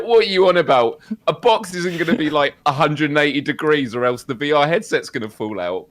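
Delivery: incredulous what are you on about. Retold or imitated. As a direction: scoff at the claim in disbelief. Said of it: "I was like".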